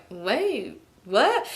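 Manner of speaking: softly puzzled "wait", rising "what?"; hesitant retold double-take; confused. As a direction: act out quiet confusion.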